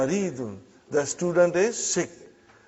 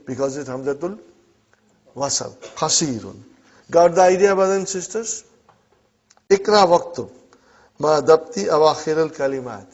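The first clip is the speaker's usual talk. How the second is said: normal talking voice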